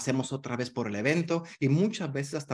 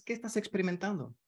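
open question to client; 6 semitones higher, 5 dB quieter than usual. Shown as a demonstration. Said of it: "y tú le preguntas".

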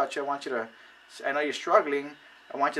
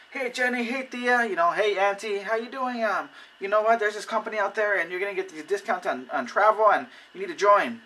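overexcited pitch; 7 semitones higher, 3 dB louder than usual. Retold or imitated. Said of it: "but don't be overexcited".

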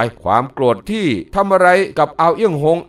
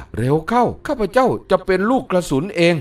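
urgent call; 4 semitones higher than usual. Acted. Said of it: "ก็ร้องว่า".

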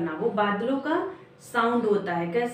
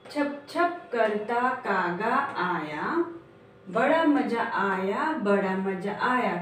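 put-on slow, sing-song rhyme for children; slow poem recitation; much slower than usual. Shown as a demonstration. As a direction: chant each line slowly for the class. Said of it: "तो बोलिए मेरे साथ". (धीमी लय में कविता पाठ)

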